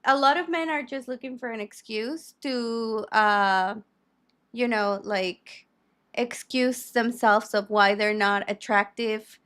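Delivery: soapbox rant. Real, not acted. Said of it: "Are you done with your soapbox?".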